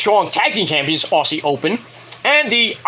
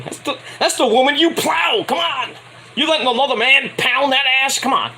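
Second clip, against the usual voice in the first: higher, raised exasperated yell; heated rant; 6 semitones higher than usual. Real, not acted. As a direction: shout it at him like a fed-up friend. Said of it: "ranting at Adam Cole".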